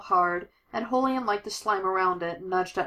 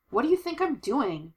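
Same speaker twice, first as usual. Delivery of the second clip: higher, indignant comeback; pitched-up exasperation; exasperated retort; 6 semitones higher than usual. Acted. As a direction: fire back at an impatient partner. Acted retort during chase.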